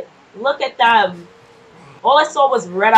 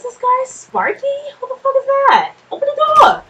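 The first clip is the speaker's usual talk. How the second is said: shouting; 14 semitones higher, 5 dB louder than usual. Real, not acted. Yelling at a locked door.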